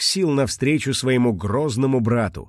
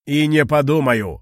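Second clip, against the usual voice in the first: irritated shout; 3 semitones higher, 4 dB louder than usual. Acted. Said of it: "раздражённо закричал кулон".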